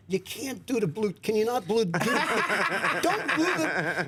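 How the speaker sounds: mock stammer, stuck on the words; lightly imitating a man with a stutter; imitated stutter. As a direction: stumble and restart as if unable to get it out. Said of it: "Don has a stutter".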